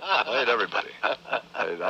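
hoarse, losing his voice; rough voice from a cold. Real, not acted. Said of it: "my voice is gone".

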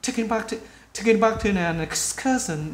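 quick, linked-up phrase; fast native-style speech. Shown as a demonstration. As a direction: run it together like a native speaker. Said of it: "khi cái người bạn ngữ nói nhanh, người ta sẽ nói là". (nói nhanh, nối âm như người bản ngữ)

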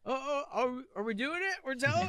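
very high cartoon voice; squeaky, hesitant mock surprise; second talking turtle. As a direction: ask it like a silly little creature. Playing second turtle joining in.

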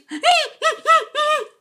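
very high squeaky giggle; squeaky laugh. Acted. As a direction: giggle like a tiny creature.

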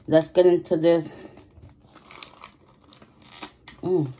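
lips closed around spoon; speaking past a spoon; talking with spoon in mouth. Real, not acted. Seen 0: Spoon handle held between lips throughout, while opening a cup.

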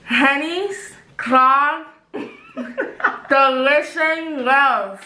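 slow, garbled words between laughs; giggling around a mouthpiece; laughing through a mouthguard. Real, not acted.

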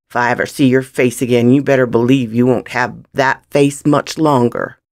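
quick, forceful warning; threatening. Acted. Gunman warning the boy never to return, threatening. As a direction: drive the threat home fast.

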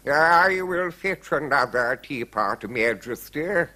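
careful, humble servant; obliging butler. A narrator's reading. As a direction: offer it deferentially as the butler. Narrator voices the butler.

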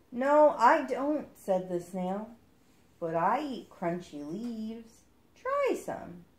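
slow, lightly voiced snail; a snail taking its time; the snail answering the duckling slowly.

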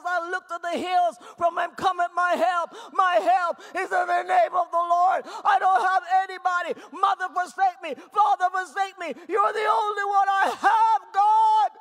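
shouted plea building to the last word; anguished cry. Acted. David crying to God as his only help, shouting. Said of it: "And he bawled his eyes".

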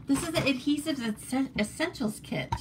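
real slip of the tongue, caught and corrected; tripping over words. Real, not acted. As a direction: stumble on Essentials and restart it. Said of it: "tripping over my words".

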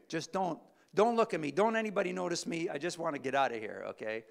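high, loud, fast pleading; woman begging the crowd not to notice her; anxious plea. Retold or imitated. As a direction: rush it out, desperate not to be seen. Woman hoping to slip away unseen.

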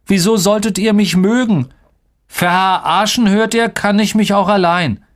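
high-pitched, heated protest; indignant retort. A narrator's reading. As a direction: throw it back at them, offended. Acted quarrel, hero rejects friends. (empörter, trotziger Protest)

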